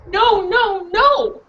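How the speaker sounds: small dog crying no; dog protesting. Acted. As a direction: bark the no's like a desperate dog.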